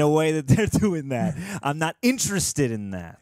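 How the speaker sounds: lightly put-on Boston accent; Ben Affleck. Co-host as actor declining the director's job, light Boston accent. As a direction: keep up the light Boston impression. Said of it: "do your best Ben Affleck impression".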